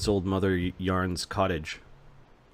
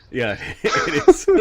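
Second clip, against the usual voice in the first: laughing; 3 semitones higher, 5 dB louder, slower than usual. Real, not acted. Laughing at religion joke.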